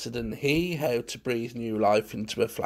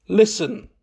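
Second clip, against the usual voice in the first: louder, raised, weighty single word; slow, deliberate; 8 semitones higher, 6 dB louder than usual. A narrator's reading. Munt stops Valentine to explain, speaking slowly. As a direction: command attention deliberately. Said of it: "said Munt slowly".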